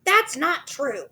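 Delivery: high slow frightened wife; Missus Twit crying out. A narrator's reading. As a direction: protest high and drawn out. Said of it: "cried Missus Twit".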